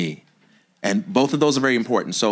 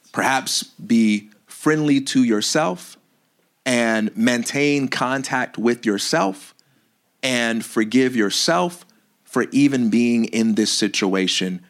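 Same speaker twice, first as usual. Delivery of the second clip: gentle, slow advice; slower than usual. Real, not acted.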